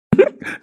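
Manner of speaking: high, sudden giggle; a giddy little squeal of laughter; squeaky giggle. Real, not acted. Drunk friend giggles in delight, high squeal.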